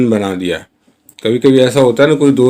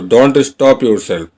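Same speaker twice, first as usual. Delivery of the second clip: slow model sentence; much slower than usual. Shown as a demonstration. Teacher modelling the English line for Hindi learners, very slow. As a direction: say each word slowly and clearly. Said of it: "teacher models English sentence".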